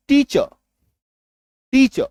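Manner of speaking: टीचर ending on a light uh; soft r teacher. Shown as a demonstration. Teacher models टीचर with the r nearly silent. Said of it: "र का हल्का सा उच्चारण करना है".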